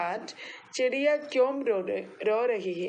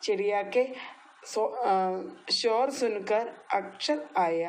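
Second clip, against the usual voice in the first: slow, each word separated; teacher modelling the Hindi line slowly; slow repeat-after-me. Shown as a demonstration. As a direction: draw out ഷോർ സുൻകർ so kids can follow. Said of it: "എന്നോട് പറഞ്ഞേ".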